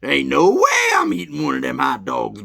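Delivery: loud, shouted refusal; indignant refusal. Retold or imitated. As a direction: shout it like you're disgusted. Refusing the vendor's hot dog.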